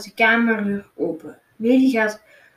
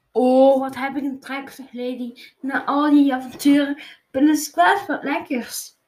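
Lady's voice; 4 semitones higher than usual. Acted. Dog Lady speaks, hungry.

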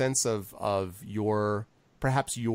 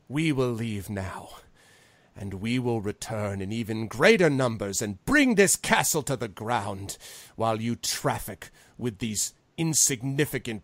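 threatening, contemptuous parting vow; angry Envon. Acted. Envon vowing to return with greater numbers, angry. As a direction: deliver a threat with mounting scorn. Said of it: "Now he's just pissed".

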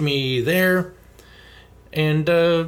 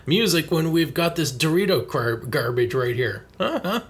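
mocking Nintendo; 3 semitones higher than usual. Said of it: "try to be like".

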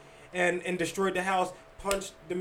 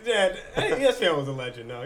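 laughing shout-out; 2 semitones higher than usual. Real, not acted.

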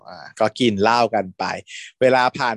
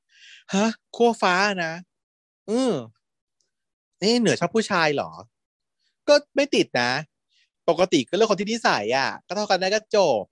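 surprised question; 6 semitones higher than usual. Retold or imitated. Surprised question then calm answer.

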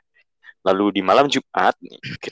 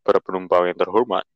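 mock airline captain intercom voice; pilot announcement. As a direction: play the captain greeting passengers.

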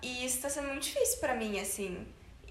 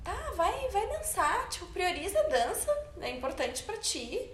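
higher, encouraging mom voice; mother's voice; 6 semitones higher than usual. Retold or imitated. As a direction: play the supportive mother, pitched up. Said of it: "Minha mãe olhou pra mim assim". (voz da mãe, mais aguda)

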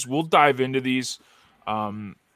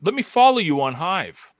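mock challenge; 5 semitones higher than usual. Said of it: "I kinda wanted to go".

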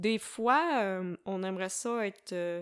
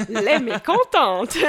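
laughing through words; 8 semitones higher, 14 dB louder, slower than usual. Real, not acted. Laughs while announcing the title.

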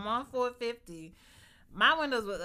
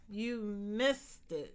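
slow, laughing "You missed it"; teasing slow laugh; laughing tease; much slower than usual. Real, not acted. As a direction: drag it out laughing. Teasing husband.

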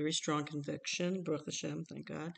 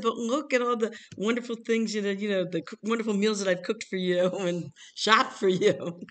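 laughing, slightly raised self-defense; higher, animated retold protest; mock pleading protest; 4 semitones higher, 4 dB louder than usual. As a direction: plead your case, half laughing. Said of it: "I said".

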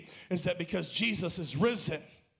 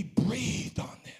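whisper; much slower than usual. Acted. Whispers the breathing.

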